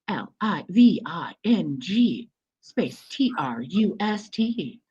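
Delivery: slow automated announcement; elevator announcement. Shown as a demonstration. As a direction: spell it out like an elevator recording. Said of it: "I'll put on my elevator voice".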